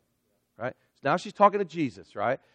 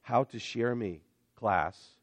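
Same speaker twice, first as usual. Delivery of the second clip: mock Jesus; 8 semitones lower, 5 dB quieter than usual. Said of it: "Jesus says".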